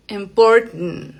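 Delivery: "important" with the middle T stopped in the throat, ending in nasal "nt"; glottal T. Shown as a demonstration. Teacher correcting the open-a version, glottal T in "important". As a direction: drop the last vowel of "important", catch the T in the throat. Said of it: "Esa es una T glotal".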